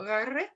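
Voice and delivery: "R" made back in the throat; R deep back. Retold or imitated. Teacher imitates the student's R, set far back. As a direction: swallow the "R" back behind the tongue. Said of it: "como allá metida".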